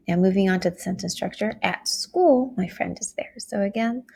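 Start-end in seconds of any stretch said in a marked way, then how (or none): 1.6-2.5 "school" lifted high, then falling; stress on location. Shown as a demonstration. Teacher moving emphasis to the location, "At school" stressed high. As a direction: raise "At school" to foreground the place. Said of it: "the emphasis is placed not on my friend".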